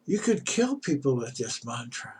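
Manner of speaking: a hushed, horrified gasp of disbelief; a mild, breathy shock. Acted. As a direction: recoil at a dangerous mistake. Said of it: "the pundit was horrified".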